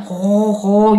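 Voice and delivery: snoring like a cow; spoken snore imitation; imitated snoring. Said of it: "y như là tiếng ngái bò".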